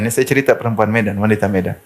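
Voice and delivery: usual speaking voice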